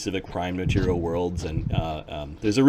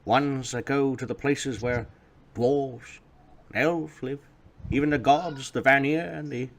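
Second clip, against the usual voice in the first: grandfather voice; 6 semitones higher than usual. Acted. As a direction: explain like a wise grandfather.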